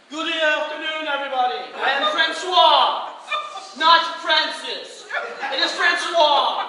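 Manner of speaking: loud, slow, showy French stage voice; pompous French performer. Retold or imitated. Vegas performer booming his grand introduction. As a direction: ham it up like a smug Vegas Frenchman.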